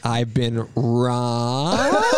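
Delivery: very slow, drawn out melodrama; mock dramatic wail. Quoting her voicemail to a stranger, drawn-out mock wail. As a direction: stretch every syllable like a soap-opera victim.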